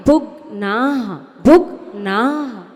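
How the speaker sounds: भुग्नाः with a half ग, no full भुग. Shown as a demonstration. Teacher to students, modelling भुग्नाः with half ग. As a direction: clip the ग in भुग्नाः and end on the visarga breath. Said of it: "भुग पूरा मत बोलो, ग आधा है".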